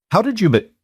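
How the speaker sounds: surprised. A narrator's reading. Clara startled by stranger.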